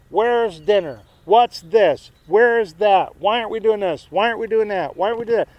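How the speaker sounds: rapid-fire volley of husband's demands; lightly mocked demanding husband. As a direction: imitate a husband firing off one demand after another. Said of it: "he makes demands".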